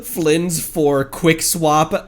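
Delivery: giggling slowly through the team plan; can't stop laughing while explaining; laughing through words. Real, not acted. Streamer laughing at his own team idea, giggling.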